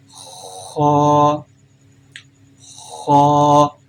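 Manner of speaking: Ho made heavy from the upper throat, full mouth. Shown as a demonstration. Teacher demonstrating the heavy letter to students: full-mouthed Ho. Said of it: "like this".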